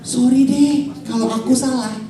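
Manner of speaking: calm, conceding sorry; understated acted apology; level-headed apology. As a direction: give in calmly to cool the quarrel. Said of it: "Yang waras itu kan bilang".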